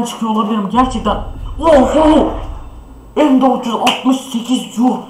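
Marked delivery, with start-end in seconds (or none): 1.6-5.0 excited shout. Real, not acted. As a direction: cry out at the jackpot. Big drop from case.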